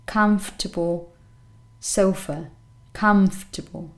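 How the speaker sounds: comfortable with COMF stressed; careful comfortable, strong start and weak ending; stress on first syllable. Shown as a demonstration. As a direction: say comfortable as CUMF-tuh-bul. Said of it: "That's the stressed syllable".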